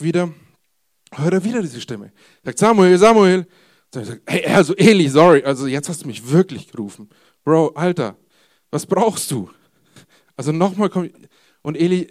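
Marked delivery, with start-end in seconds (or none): 2.6-3.5 booming call of the name; booming divine call. Acted. God calls a third time. 4.3-9.5 put-on loud, fed-up boy; half shouting, sick of getting up; loud exasperated boy woken yet again. Boy exasperated, woken third time.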